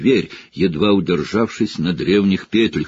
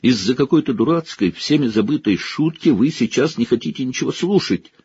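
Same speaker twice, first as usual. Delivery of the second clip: higher, indignant; student arguing with teacher, indignant; heated protest; 5 semitones higher than usual. Acted. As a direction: push back hard.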